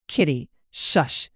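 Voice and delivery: slow, scolding hush; chiding. Acted. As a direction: hush her sister sternly. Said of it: "Mary chided".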